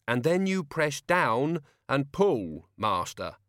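slow weary explanation; sighing. Acted. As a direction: sigh it out patiently. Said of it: "Albert sighed".

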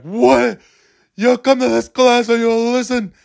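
put-on high, barking old New York teacher; Ken Jacobs impression. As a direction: call out orders like a crusty New York old-timer. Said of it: "that's what Ken Jacobs sounded like".

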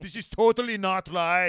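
put-on high loud valley girl whine. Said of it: "to sound like a valley girl".

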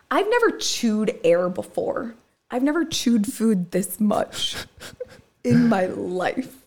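drawn out, laughing through the words; half laughing, half crying about chewing so much; laughing complaint. Real, not acted. Laughing to her friend about the tiny shared meal, drawn out.

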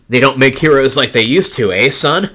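a hint of hammy villain taunt; lightly voiced cartoon villain; Power Rangers villain. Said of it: "this terrible dialogue that she has here".

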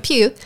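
"Pugh" said with a y-glide, pyoo; Pugh pronunciation. Shown as a demonstration. Cohost repeats the corrected surname, "Pugh" said pyoo. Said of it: "Pugh, not Pooh".

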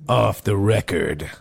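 slow low trailer-voice line; movie trailer voice. Shown as a demonstration. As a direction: say it like a dramatic film narrator. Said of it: "Oh, do it again".

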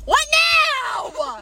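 high, loud mock whine; what now, exasperated and put-upon. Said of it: "I'm like".

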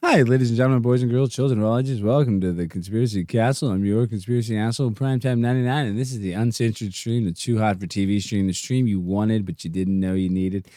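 ringmaster welcome; showman announcer. Pretend. Lightly voiced host opening his conspiracy stream. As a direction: roll it out like a carnival barker. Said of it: "this is my impression of my stream tomorrow".

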